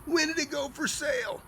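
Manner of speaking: high-pitched mock-astonished question; imitated astonishment. Neighbour finding the lot already sold, astonished. Neighbours surprised, voiced in story.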